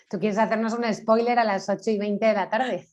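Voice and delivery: amused, tease with a laugh at the end; joking question breaking into laughter; playful teasing. Real, not acted. Panelist teasing an audience member who asks for the keys, playful teasing.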